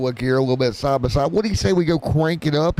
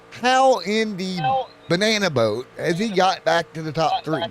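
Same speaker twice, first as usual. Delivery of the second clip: incredulous; 3 semitones higher than usual. Real, not acted. Baffled at driver's comeback.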